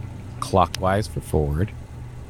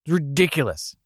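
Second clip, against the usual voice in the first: indignant; 9 semitones higher than usual. Acted. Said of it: "repeated line".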